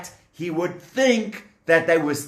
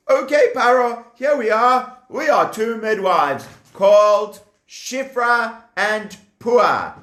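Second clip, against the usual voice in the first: cheerful midwives; 6 semitones higher, 3 dB louder than usual. Acted. Midwives answering Pharaoh.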